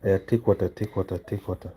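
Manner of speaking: a loud laugh into a coaxing call. Real, not acted. Father laughing as he urges his baby to take water, laughing coax.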